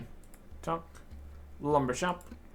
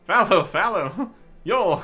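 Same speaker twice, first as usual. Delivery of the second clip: loud, slow, higher mock bellow; playful shout; 4 semitones higher, 8 dB louder, slower than usual. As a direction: yell the word to show it off. Player shouts new wild speak words.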